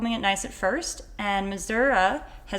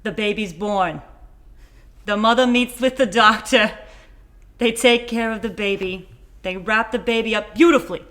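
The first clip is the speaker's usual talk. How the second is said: Trump impression; 3 dB louder than usual. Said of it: "it was supposed to be Trump".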